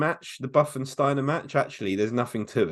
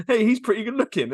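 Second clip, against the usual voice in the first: lightly acted wrestler, higher pitched; wrestler mugging to camera; 8 semitones higher, 4 dB louder than usual. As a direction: quote his showy aside to the camera.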